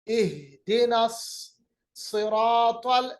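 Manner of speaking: "सिरातल" slowly, with a thick, heavy saad. Shown as a demonstration. Teacher showing the thick letter in "सिरातल", heavy saad. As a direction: make the s of "सिरातल" full and heavy. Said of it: "इसको मोटा अदा करेंगे".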